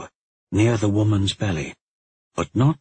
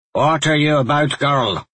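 higher, louder sharp challenge; demanding; 6 semitones higher, 4 dB louder than usual. A narrator's reading. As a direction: demand it of the girl, raised voice. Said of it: "the woman demanded".

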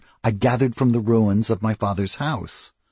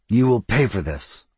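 through clenched teeth. Acted. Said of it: "said the voice through clenched teeth".

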